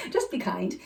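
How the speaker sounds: said through a laugh; amused, laughing repetition. Real, not acted. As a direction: laugh it out with delight. Repeats answer laughing.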